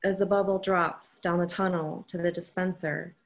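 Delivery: measured poetry reading with pauses between phrases; poem reading. Acted. Poet reads her poem to an online audience, measured recital.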